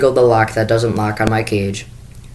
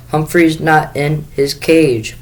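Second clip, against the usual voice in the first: between sobs; 5 semitones higher, slower than usual. Acted. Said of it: "she said between sobs".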